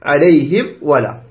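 slow "عليهم", then a separate "ولا"; clear meem. Shown as a demonstration. Teacher shows the easy correct way, clear meem. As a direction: close the lips cleanly on the meem of "عليهم". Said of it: "هكذا تقرأ بكل سهل".

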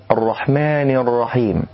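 الرحمن with the n vowel between a and i; tilted nun. Shown as a demonstration. Teacher demonstrates the mistake. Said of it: "بين الفتحة والكسرة".

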